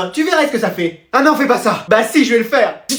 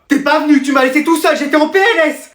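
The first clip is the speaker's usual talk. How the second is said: reproach; 6 semitones higher than usual. Acted. Friend reproaches the absent friend.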